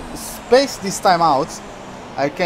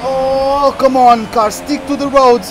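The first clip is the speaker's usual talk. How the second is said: loud plea to the car; real plea to the car to hold on; urging the car; 4 semitones higher, 4 dB louder than usual. Real, not acted. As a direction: beg the car to hold the road. Pleading with the car mid-race.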